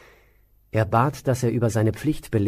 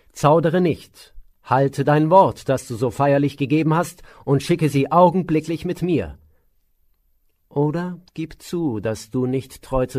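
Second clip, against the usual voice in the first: sharp voice; 4 semitones higher, 5 dB louder than usual. Acted. Sage Vishwamitra commands the hesitant king, sharp and loud. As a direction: demand it sharply, each word pressed. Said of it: "Schärfe in der Stimme des Weisen".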